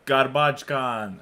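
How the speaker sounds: put-on drawn-out Polish-accented garbage can, rolled R, loud high "oh". Imitating Polish listeners who finally get it, drawn-out Polish accent. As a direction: mimic Poles catching on, slow and stretched. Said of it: "they're like".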